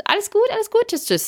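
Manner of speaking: quick pleasantries, starting high and dropping; breezy retold hello-and-goodbye; brief exchange. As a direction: imitate a hurried friendly small-talk exchange. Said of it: "nur ganz kurz".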